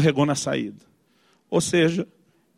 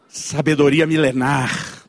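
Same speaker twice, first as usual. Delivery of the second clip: slow, drawn-out, slightly lower wisdom; mock-solemn pronouncement; 3 semitones lower, much slower than usual. Father warning son once more, mock-solemn. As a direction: intone it like an ancient sage.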